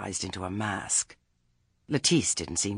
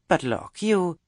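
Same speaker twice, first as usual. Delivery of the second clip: higher, louder hasty interjection; quick; 11 semitones higher, 8 dB louder than usual. A narrator's reading. Gammer asking about the produce stall, hastily. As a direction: jump in to change the subject. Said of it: "said Gammer Beavis quickly".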